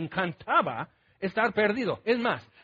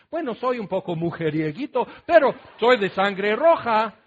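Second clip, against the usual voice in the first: mock boastful excuse; 6 dB louder than usual. Mocking a womanizer's excuse.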